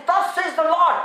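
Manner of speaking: preacher lightly voicing God. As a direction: declare it with authority. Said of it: "It's a voice of God".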